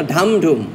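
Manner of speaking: ধাম ধুম as two separate drum strokes; drumbeat stress pattern. Shown as a demonstration. Teacher correcting the drum order, ধাম ধুম in two measured beats. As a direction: beat out ধাম then ধুম. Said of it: "নিচের দিক থেকে বাড়ি দিয়ে উপরের দিকে".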